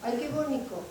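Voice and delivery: lightly done Aragonese tune on ay, qué bonito; mild Aragonese sing-song accent; Aragonese lilt. Retold or imitated. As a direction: let the Aragonese intonation come through a little. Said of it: "enseguida me nota que soy manica".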